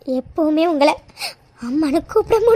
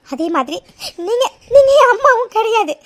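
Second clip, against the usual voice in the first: tearful. Acted. Daughter rejecting her mother.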